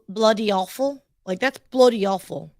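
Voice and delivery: imitating British slang; playful British accent attempt; mock British accent. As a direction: try "bloody awful" like a Brit. American trying British slang.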